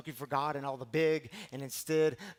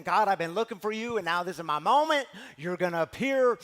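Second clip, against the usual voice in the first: louder, eager and giddy calling out to God; happy and giddy; 3 semitones higher, 8 dB louder than usual. Retold or imitated. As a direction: burst out hopeful, like the big moment is here. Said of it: "I imagine he's all happy and giddy".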